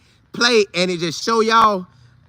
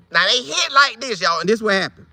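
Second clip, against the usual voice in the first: usual speaking voice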